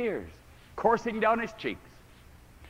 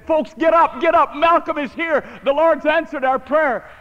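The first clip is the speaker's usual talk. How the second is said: high, loud, overjoyed call; joyful shout; 9 semitones higher, 11 dB louder than usual. Retold or imitated. Father telling the kneeling prayer group his son is here, a joyful shout. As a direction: cry out the good news to everyone. Father announces son's return.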